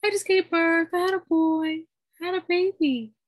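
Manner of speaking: high, loud, giddy announcement; high, loopy self. Retold or imitated. Tells her dad the news while high, loud and giddy. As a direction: blurt it out like you're tipsy. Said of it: "I'm so drunk, I'm so high".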